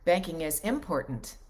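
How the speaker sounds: IM-portant, first syllable punched; stress on first syllable of IMPORTANT. Shown as a demonstration. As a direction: hit the im of important. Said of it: "emphasis on certain syllables and things".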